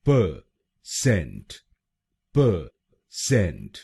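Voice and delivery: परसेंट drawn out slowly as pə-sent; slowed demonstration. Shown as a demonstration. Teacher slowing down so students catch परसेंट. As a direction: stretch परसेंट out slowly, syllable by syllable. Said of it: "तो बनेगा".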